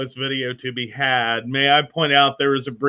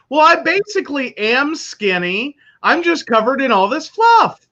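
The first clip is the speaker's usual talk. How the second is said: higher, hammed-up bad Italian accent; 9 semitones higher than usual. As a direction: quote him in a goofy Italian accent. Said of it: "said with a bad Italian accent".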